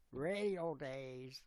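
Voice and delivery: slow, drawn-out radio presenter. Retold or imitated. Streamer imitating how radio people talk, radio voice. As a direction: stretch it like a radio host. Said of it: "like, the radio".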